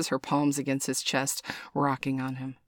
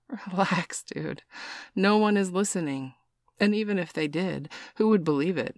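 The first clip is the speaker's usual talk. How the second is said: higher, easygoing reassurance; reassuring; 5 semitones higher than usual. A narrator's reading. Stranger calming Mark at the bar, reassuring. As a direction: brush the worry off with a smile. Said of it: "says with a reassuring smile".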